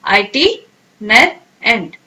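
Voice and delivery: slow, syllable by syllable. Shown as a demonstration. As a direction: split the syllables for students to copy. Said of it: "pronounce करें पहले मेरे साथ".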